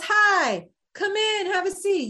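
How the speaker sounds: high, sing-out hello; imitated welcoming greeting. Acts star greeting her in trailer.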